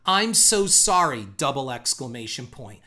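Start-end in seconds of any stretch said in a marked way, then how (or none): 0.0-1.3 drawn-out, over-earnest mock apology; slow, hammed-up online sympathy; mock all-caps gushing. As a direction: read it like a tweet typed in capitals. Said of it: "in all caps, like she's twelve years old".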